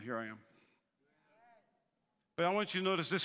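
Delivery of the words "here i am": much lower, soft Abraham; quiet reply. Acted. Abraham answering God, low and soft. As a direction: answer humbly and softly. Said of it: "Abraham said".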